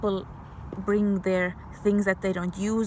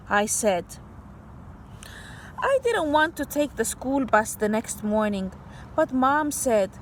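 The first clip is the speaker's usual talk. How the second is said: put-on bright read-aloud voice for kids; story reading; 2 semitones higher than usual. Teacher reading a story to kids, storybook voice. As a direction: read the picture book to children.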